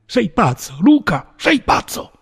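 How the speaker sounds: high, panicked shout; frantic high-pitched pleading cry; terrified cry. A narrator's reading. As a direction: cry out in terror at a levelled gun.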